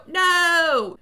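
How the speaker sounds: one long, loud, high wail; hammed-up cry of protest; mock-helpless shout. Chris just standing there as wife dies, mock anguish. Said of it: "just stand there and go".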